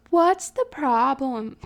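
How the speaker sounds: slow mock-annoyed yell; playfully grumpy, drawn out; fake annoyed. Sister yelling back from the other room, mock-annoyed. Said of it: "in, like, a fake annoyed tone".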